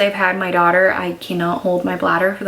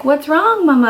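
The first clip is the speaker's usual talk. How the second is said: put-on little girl voice; 8 semitones higher, 5 dB louder than usual. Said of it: "she's like".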